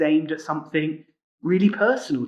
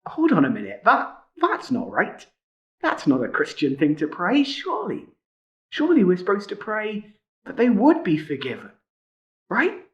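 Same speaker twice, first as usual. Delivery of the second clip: doubtful objection; 4 semitones higher than usual. Retold or imitated.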